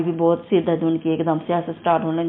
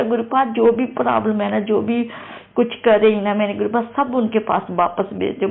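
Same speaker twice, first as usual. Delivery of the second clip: pleading through tears, pitched higher; tearful prayer; 3 semitones higher than usual. Retold or imitated. Praying to guru in distress over husband, tearful pleading. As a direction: beg the guru, voice close to crying. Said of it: "फिर मैं बहुत ज़्यादा रोई".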